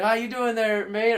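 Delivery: high, loud mock Canadian accent greeting. Canadian gamers welcoming the new guy, mock Canadian accent. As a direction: ham up a friendly Canadian accent. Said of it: "you can hear the Canadian".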